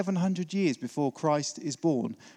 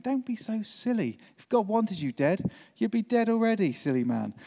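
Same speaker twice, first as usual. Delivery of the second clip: higher-pitched mock scolding wife; gently teasing wifely telling-off, pitched up then dropping; exasperated wife; 5 semitones higher than usual. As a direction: lightly play a wife chiding her husband. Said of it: "hear your wife's voice in the wife".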